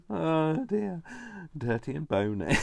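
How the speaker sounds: high, loud, laughing words; barely getting the words out for laughing; helpless laughter. Real, not acted. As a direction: squeal it out mid-giggle. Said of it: "It's not even that funny".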